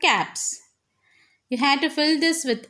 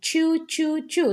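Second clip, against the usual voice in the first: chewing sounds; 5 semitones higher than usual. Shown as a demonstration. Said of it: "when I am hungry, I eat".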